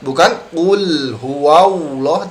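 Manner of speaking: 'qul huwallah' slow with lips pushed forward; wrong rounded reading. Shown as a demonstration. Teacher repeating the wrong reading as a warning, slowly. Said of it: "Jadi tidak".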